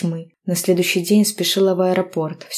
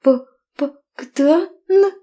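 high, broken stutter; shocked stammer; 9 semitones higher, 3 dB louder than usual. A narrator's reading. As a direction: stammer in disbelief.

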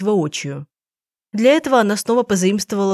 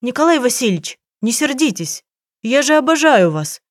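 pleading adoration; 6 semitones higher than usual. Retold or imitated. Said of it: "а потом говорю".

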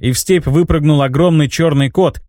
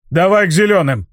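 higher shouted command; shouting; 5 semitones higher than usual. Acted. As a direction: call out the order to the eagle. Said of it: "крикнул старый шаман".

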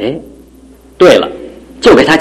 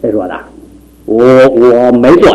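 put-on drunk denial; 3 semitones lower than usual. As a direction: insist you're sober, slurring. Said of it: "你都喝醉了".

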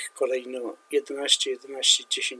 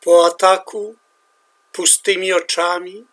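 solemn, measured poetry reading, louder and higher at line openings; poem recital; 3 semitones higher, 9 dB louder than usual. Acted. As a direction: declaim it like a war poem at a reading. Begins reading next translation.

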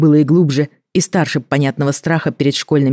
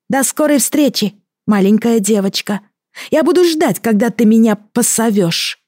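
very high, gleeful creature farewell; gurgling alien voice; 8 semitones higher than usual. Acted.

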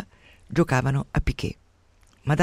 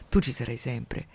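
softer and touched; moved, tender; 3 semitones lower, 5 dB quieter than usual. Acted. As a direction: say it with a catch of feeling. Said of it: "lui si commuove e dice". (commosso e tenero, a voce più bassa)

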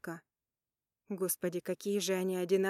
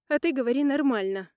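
loud, higher impatient command; sharp order; 5 semitones higher, 8 dB louder than usual. Acted. Sister ordering frightened Polina to speak, loud impatient command. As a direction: snap the order at her.

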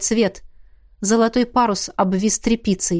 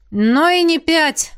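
gloomy; 7 semitones higher, 3 dB louder, slower than usual. A narrator's reading. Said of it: "мрачно сказал Эммет".

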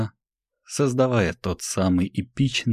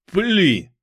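much higher, loud cry of fire; exclaimed fire order; 12 semitones higher, 5 dB louder than usual. Acted. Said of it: "воскликнул король Магдаларен".

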